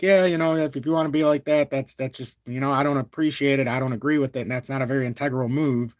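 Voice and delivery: disagree evenly without getting worked up; calm disapproval. Shown as a demonstration. Showing viewers how they object now, calm and restrained. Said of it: "I'm not getting all animated".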